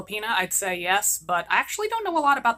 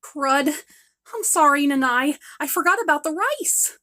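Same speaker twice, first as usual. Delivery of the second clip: higher, louder hurried sorry; flustered apology; 4 semitones higher, 4 dB louder than usual. Acted. Daughter caught burning rice, flustered apology to her mother. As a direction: own up in a fluster.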